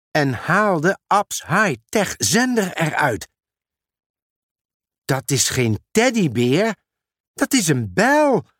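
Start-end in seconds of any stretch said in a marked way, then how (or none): 5.0-8.5 surprised. Acted. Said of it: "zei Mera verrast".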